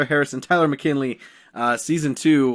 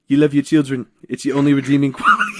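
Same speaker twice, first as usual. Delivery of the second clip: bad Tyrion voice; faster than usual. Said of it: "Nope, I can't do it".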